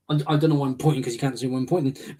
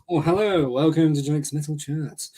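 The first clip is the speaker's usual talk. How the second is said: posh accent. Shown as a demonstration. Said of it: "with a posh accent".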